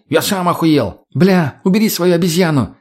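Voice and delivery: high-pitched heated squabbling; indignant. A narrator's reading. Mutny and the women squabble over the mutant, indignant. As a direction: trade outraged retorts. Quarrel continues, both shouting.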